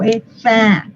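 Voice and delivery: "fat" with a stretched æ between A and E; wide, twisted vowel in "fat"; E through A mouth. Shown as a demonstration. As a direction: open big for A, switch to E on "eh, fat". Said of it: "pongo la boca grande para decir una A y la cambio y digo".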